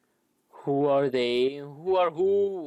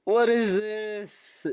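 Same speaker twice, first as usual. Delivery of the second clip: slow, drawn-out what in disbelief; stunned disbelief; 6 semitones higher, slower than usual. Real, not acted. Streamer reacting to an emotional game scene, slow stunned disbelief. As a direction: stare at the screen and slowly ask.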